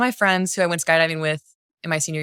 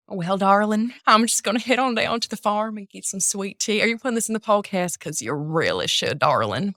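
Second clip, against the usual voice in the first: put-on Southern accent; 4 semitones higher than usual. Theater student showing off the one accent they can do, playful Southern. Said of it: "I can do Southern".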